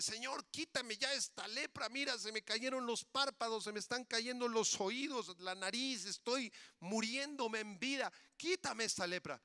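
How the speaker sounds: high, urgent begging; desperate leper. Acted.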